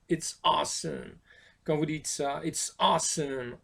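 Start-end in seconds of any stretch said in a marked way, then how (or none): 0.1-1.1 excited. Shown as a demonstration. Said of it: "vous êtes surpris". 2.4-3.6 excited. Shown as a demonstration. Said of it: "vous êtes surpris".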